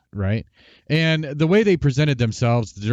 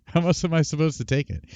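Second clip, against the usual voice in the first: laughing; 3 semitones higher, 3 dB quieter than usual. Retold or imitated. Repeat with a laugh.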